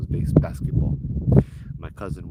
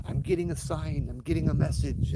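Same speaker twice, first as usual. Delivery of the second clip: mystical trance voice; 6 semitones higher, 4 dB quieter than usual. Retold or imitated. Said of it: "she starts going like".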